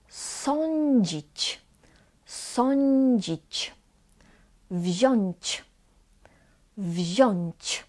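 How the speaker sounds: Sądzić and Wziąć with ą said as "oń". Shown as a demonstration. Teacher models examples for learners, ą as oń. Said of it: "Then we pronounced on".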